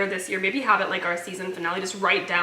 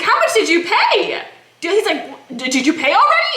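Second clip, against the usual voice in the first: alarmed husband; 10 semitones higher, 4 dB louder than usual. Retold or imitated. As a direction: imitate dread at the bill. Husband alarmed at cost, retold.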